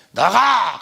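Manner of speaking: sharp commanding yell; shouted command. Retold or imitated. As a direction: order the spirit out with a yell. Exorcism command shouted at spirit. (귀신에게 외치는 명령)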